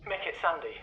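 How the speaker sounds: tense. Acted. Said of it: "you sound quite tense".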